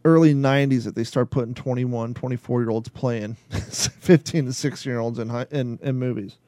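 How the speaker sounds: rough, low whiskey-worn voice; hoarse from a drink of whiskey. Real, not acted. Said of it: "get rid of this whiskey, whiskey voice".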